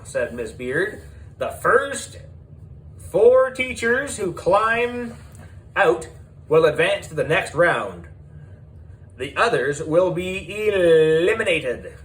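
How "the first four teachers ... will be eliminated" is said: host announcing. Acted.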